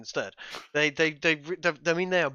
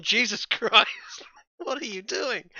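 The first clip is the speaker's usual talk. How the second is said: shocked exclamation; 8 semitones higher, 5 dB louder than usual. Retold or imitated. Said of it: "taking a look at Australia and gone".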